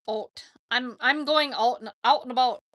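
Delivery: rusty try at a Minnesotan accent; attempted Minnesotan accent. Shown as a demonstration. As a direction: test out a half-remembered Minnesotan accent. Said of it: "I can't even do it anymore".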